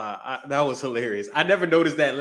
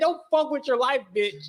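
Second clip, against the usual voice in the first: very high-pitched, angry woman's voice; 11 semitones higher than usual. Recounting a white woman's words, imitating an angry woman. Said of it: "I felt the anger in that white woman's voice".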